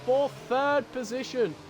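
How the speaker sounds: keyed-up motorsport commentator; excited race commentary. Real, not acted. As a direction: call the racing action with rising excitement. Live race play-by-play.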